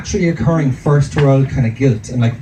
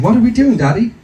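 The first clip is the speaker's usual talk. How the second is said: lightly voiced toddler, pitched higher; 6 semitones higher than usual. Toddler asking dad what they're doing, lightly imitated higher child voice. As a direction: ask like a curious two-year-old. Voicing his two-year-old son.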